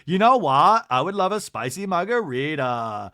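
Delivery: mock reality-star "what" cut to an open "wha"; Lisa Barlow. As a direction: leave the T off "what", then order breezily. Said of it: "doesn't have time to pronounce the T's".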